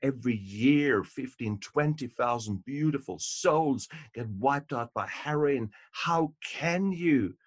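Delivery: a hammed-up mom who loses it; mock outraged mother. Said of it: "loses it and says".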